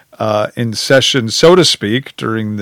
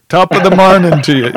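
a clumsy, higher Scottish brogue, a little louder; bad Scottish brogue; 6 semitones higher, 4 dB louder, faster than usual. Shown as a demonstration. Host attempting a Scottish brogue for his co-host, awful Scottish accent. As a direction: try a Scottish brogue and miss it. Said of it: "in, in the Scottish brogue".

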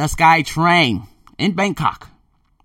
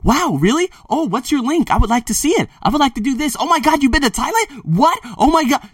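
much higher, louder mock gushing; gushing fan; 12 semitones higher, 6 dB louder than usual. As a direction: squeal it like an over-eager admirer. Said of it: "They're gonna say".

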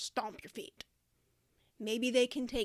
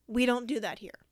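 calm firm teacher phrase; modelled phrase. Shown as a demonstration. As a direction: say it flat and firm. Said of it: "you would look at them and say".

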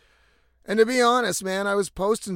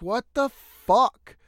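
exasperated, higher-pitched outburst; retold shout; 5 semitones higher, 3 dB louder than usual. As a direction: cry out in exasperation at the sky, not full force. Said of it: "I fucking shouted out".

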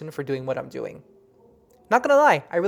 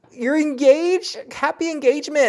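excited congratulations; 9 semitones higher, 4 dB louder than usual. Retold or imitated. To the client hearing she's engaged, thrilled and high. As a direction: gush it like wonderful news. Retelling her reaction to engagement news.

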